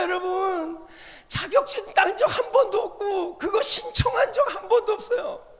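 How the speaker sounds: high, loud, laughing preaching; laughing shout. Real, not acted. Preacher laughing and shouting about nagging to the congregation.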